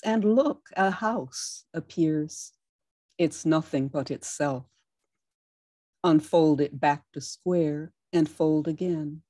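slow, deliberate poem reading; poetry reading. Acted. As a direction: read it as if folding the paper. Reads origami poem aloud.

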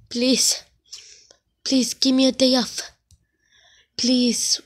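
whispered plea; begging whisper. Pretend. Begging the boss for a day off, whispered. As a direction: plead in a whisper. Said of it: "my legs cannot resist".

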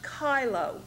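chylo said as KY-loh, hard K; pronunciation demo. Shown as a demonstration. Teacher showing students how chylo sounds, slow pronunciation demo. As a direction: slowly say chylo with a K sound and silent E. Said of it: "is pronounced".

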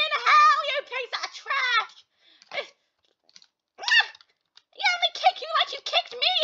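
strained high-pitched character voice, far above her own; high squeaky game voice. Acted. Gamer girl taunting the other players in a squeaky voice. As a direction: squeak it out like a bratty cartoon kid. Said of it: "it's hurting my voice".

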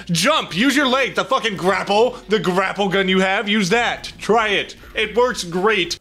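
high, pressing coaching in short bursts; frantic urging. Real, not acted. Player urging himself to use the grapple, frantic. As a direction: push hard, no time to waste.

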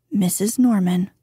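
"Norman" settling down at the end, as plain fact; statement of fact. Shown as a demonstration. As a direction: let "Norman" close the introduction without any lift. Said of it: "as a mere statement of fact".

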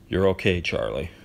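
flat monotone giant; even monotone, no lift. Acted. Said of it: "in his usual monotone voice".

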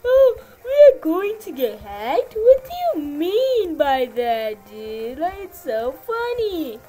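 high, loud, laughing mockery of the doubters; mocking laughter. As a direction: cackle at the idea of getting hacked. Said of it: "You think it's like".

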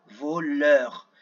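VOLEUR slowly, "vo" held apart from "leur"; split into syllables. Shown as a demonstration. Teacher breaking down the word for children, "voleur" syllable by syllable. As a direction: sound out "voleur" in two long syllables. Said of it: "dans la première syllabe".

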